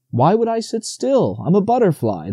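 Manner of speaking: as if the request were absurd; astonished. A narrator's reading. Butterfly answering Bambi, high and astonished. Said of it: "answered in astonishment".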